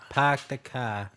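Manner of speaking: slow Boston park the car; Boston accent. Shown as a demonstration. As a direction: stretch it out like a Bostonian. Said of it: "Boston accents?".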